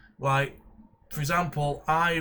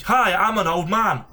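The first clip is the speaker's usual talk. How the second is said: slow, louder put-on old man; 5 semitones higher, 8 dB louder, slower than usual. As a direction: croak it out like a grandad. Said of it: "Couldn't you get an old man to voice him?".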